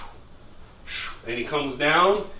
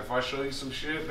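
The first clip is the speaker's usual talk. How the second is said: Harry's raspy voice; 10 dB quieter than usual. Retold or imitated. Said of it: "he's always had that raspy ass voice".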